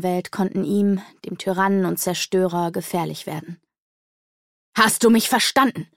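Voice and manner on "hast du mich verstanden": a bellowed demand, fairly loud; bellowing. Acted. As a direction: roar the question at him. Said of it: "brüllte Akonada".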